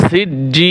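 সিজ্জিন with the second vowel held three beats, closing on n; long madd. Shown as a demonstration. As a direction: draw out the "jji" of সিজ্জিন, end on a bare n. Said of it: "তিন আলিফ টান হবে". (তিন আলিফ টানে সিজ্জিন)

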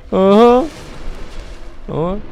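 high startled huh; jolted by something unexpected; surprised. Real, not acted. Surprised at an enemy.

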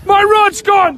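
yelling. Real, not acted. Angler whose rod went in the water, yelling. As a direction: yell out the loss. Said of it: "Why are you two yelling".

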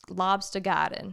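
lightly put-on Boston accent; obnoxious accent. Recommending the book to parents, light Boston accent. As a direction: say the title in mild mock Boston. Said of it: "admittedly an obnoxious accent".

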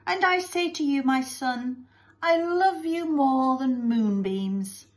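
high, sentimental mother voice; Missus Lovey-Dovey. Acted. Mother declares love to her son, gushing. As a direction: gush lovingly, slowing toward the end.

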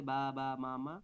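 "বা, বা, মা, মা" as even, drawn-out syllables; repeated-syllable babbling. Shown as a demonstration. Teacher showing repeated babble, "বা, বা, মা, মা" evenly drawn out. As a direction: demonstrate "বা, বা, মা, মা" one held syllable at a time. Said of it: "একটা সিলেবল করে".

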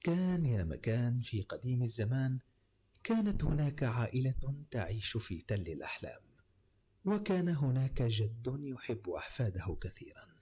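slow, low fairy-tale narration; arabic storyteller. Acted. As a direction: tell it like an old storyteller. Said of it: "يبدأ الراوي يقول".

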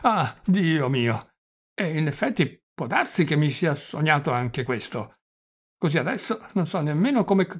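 stretched sighs, halting consonants; flustered old prince. Acted. Old prince begging his nephew's help, flustered and stammering.

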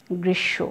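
গ্রীষ্ম with the ম unsounded, as grish-sho; correct pronunciation. Shown as a demonstration. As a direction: say গ্রীষ্ম with a doubled sh and a slight nasal, no m. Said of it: "সঠিক উচ্চারণ". (গ্রীষ্ম-এ ম অনুচ্চারিত, একটু নাসিক্য)

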